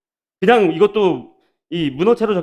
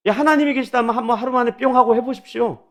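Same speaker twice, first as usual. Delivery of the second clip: higher-pitched mock challenge; mocking taunt; 5 semitones higher than usual. Enemies dare the Jews to finish in a day, mocking. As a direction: jeer a dare at them. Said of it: "그냥 비아냥거리는 거예요".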